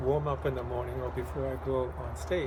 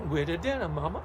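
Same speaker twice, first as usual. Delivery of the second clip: put-on hungry kid; 2 semitones higher than usual. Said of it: "you can say".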